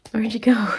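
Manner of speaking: breathy whisper to herself as the lady walks off; whispered aside. Retold or imitated. Left alone in the lobby, whispering where'd you go. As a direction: whisper it, baffled.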